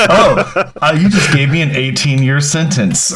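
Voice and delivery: laughing through the words; can't hold the laugh back. Retold or imitated. Laughing quote of his reaction.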